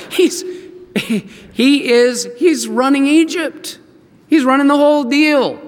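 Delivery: high, halting then gushing excitement; stammer, then proclaim it high and amazed; excited news-breaking. Acted. Brothers telling Dad about Joseph, amazed excitement.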